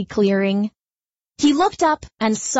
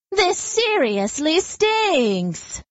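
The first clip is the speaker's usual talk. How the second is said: grumpy skunk; 7 semitones higher, much slower than usual. Acted. Skunk sulks after stings.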